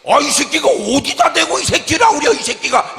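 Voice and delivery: 높고 크게 버럭 되받아치기; 벌떡 일어나 따지듯; 발끈한 고함. Acted. 욕에 발끈하는 사람 연기. (욕 들은 사람이 발끈해 고함)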